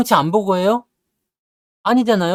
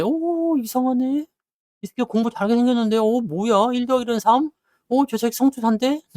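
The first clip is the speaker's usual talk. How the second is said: higher-pitched, softer voice of someone doubting their answer; puzzled test-taker; 4 semitones higher, 3 dB quieter than usual. Acted. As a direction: act out wondering aloud while peeking at a rival's paper. Acting a test-taker peeking at another's answer. (답을 의심하며 높고 작게 혼잣말하는 수험생)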